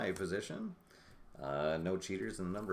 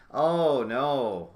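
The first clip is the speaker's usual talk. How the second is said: dismayed outcry; 5 semitones higher, 10 dB louder than usual. Real, not acted. Bad turn for his team.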